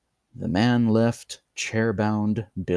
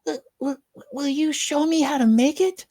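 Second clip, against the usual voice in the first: high, stammering eager plea; eager child. A narrator's reading. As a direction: stumble over the words in excitement.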